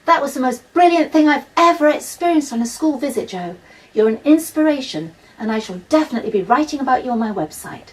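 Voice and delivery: loud and high, calling over cheering crowd; shouting over applause. Acted. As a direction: shout it so she's heard above the noise. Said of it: "the author had to really shout".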